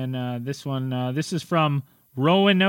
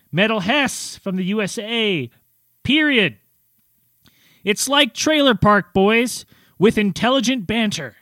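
lively announcer read, pitched up; 4 semitones higher than usual. Acted. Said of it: "I do my announcer voice".

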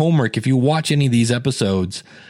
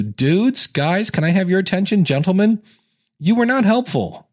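higher-pitched appeal to the guys; mock admonishment; 4 semitones higher than usual. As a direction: call the men to attention, pitch climbing to the end. Mock address to the husbands.

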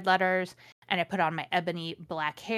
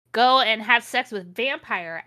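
louder, slow hammed-up yell; mock shout; 3 semitones higher, 6 dB louder than usual. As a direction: storm off yelling this. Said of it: "I shouted".

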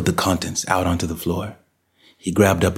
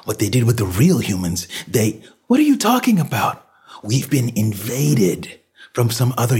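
slightly higher, emphatic voice of a man warning of danger; urgent desperate man; 5 semitones higher than usual. Acted. Man warns of an invasion from another universe, urgent. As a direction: press each point home as an urgent warning.

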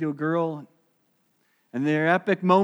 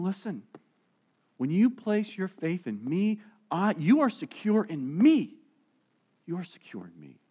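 reassuring Jesus. Retold or imitated. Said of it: "And Jesus saying".

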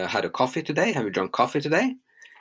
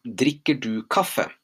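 slow model question; slower than usual. Shown as a demonstration. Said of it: "Next one".

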